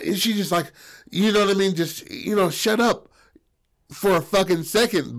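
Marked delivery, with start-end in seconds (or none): 2.5-5.2 exasperated interruption. Acted. Acts Nell cutting Buddy off.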